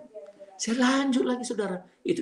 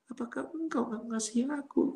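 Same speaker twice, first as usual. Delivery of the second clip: gentle plea; 4 dB quieter than usual. Retold or imitated. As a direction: imitate the soft pleading voice. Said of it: "kok begitu gentle".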